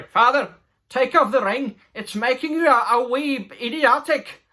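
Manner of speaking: hammed-up plea from the son; pleading son. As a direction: beg your father like a mocked young dwarf. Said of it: "no, s-, sorry".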